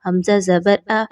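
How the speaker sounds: spelling syllables slowly for pupils. Shown as a demonstration. Teacher spells the word letter by letter for students. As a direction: spell out جیم الف مد deliberately. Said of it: "تو آپ نے یہاں پر پڑھنا ہے".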